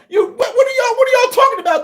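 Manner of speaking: real exasperated yell; exasperated shout. Real, not acted. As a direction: shout it at the doubters in disbelief. Exasperated rant at critics.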